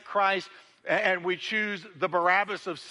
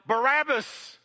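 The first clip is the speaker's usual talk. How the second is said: high, loud mock crowd yell; a preacher's raised crowd cry; crowd shout; 9 semitones higher, 3 dB louder, slower than usual. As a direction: call out the name like an angry mob. Crowd calls out to Pilate.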